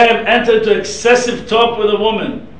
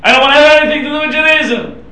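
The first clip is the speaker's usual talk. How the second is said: indignant student, quicker and a little louder; upset protest; 3 semitones higher, 3 dB louder, faster than usual. Retold or imitated. Angry student tells the rabbi she is leaving, upset. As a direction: huff and threaten to walk out. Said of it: "she got so upset".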